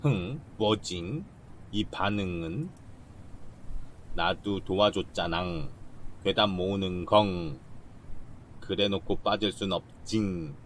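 slow, sing-song cutesy voice; slow cutesy reading with nasal-style endings; cutesy slow talk. Acted. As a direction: drag out the endings cutely. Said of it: "극혐".

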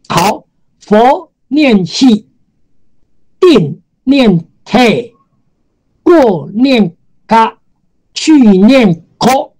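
slow, deliberate reading of each sound; 放慢示范读音; slow pronunciation demo. Shown as a demonstration. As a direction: model each reading slowly for the class.

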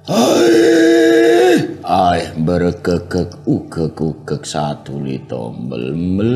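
wayang clown-sage, crying without really crying; Semar. Shown as a demonstration. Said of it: "Nek suara Semar".

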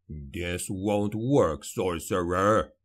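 low, slow growl of a gruff dwarf. A narrator's reading. Dwarf growling a warning at the sorcerer. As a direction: drag it out low and menacing. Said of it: "growled Gotrek".

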